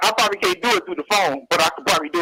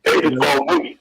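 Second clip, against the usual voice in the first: lightly lowered, gruff-toned comedian voice; Paul Mooney impression; 4 semitones lower than usual. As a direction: play the old-school comic hyping the host. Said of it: "I do impersonations of, uh, Paul Mooney".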